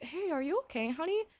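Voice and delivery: soft, caring mom voice; gentle concern. Retold or imitated. Ex's mom pulls her aside to check on her, gentle concern. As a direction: check in softly, lightly imitating a mom.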